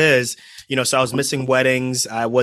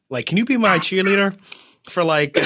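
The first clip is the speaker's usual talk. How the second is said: high, delighted and laughing; thrilled by the praise; excited; 8 semitones higher than usual. Real, not acted. Guest reacts to hype intro.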